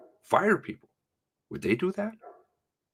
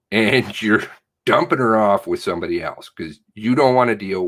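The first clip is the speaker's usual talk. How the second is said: a louder, heated replay of his protest; retold outburst; 4 dB louder than usual. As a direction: push back hard at the nurses. Retold confrontation with nurses.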